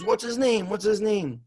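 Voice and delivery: high, eager repeated question; urgent questioning. Retold or imitated. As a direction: demand the name excitedly. Coach urgently asks, retold.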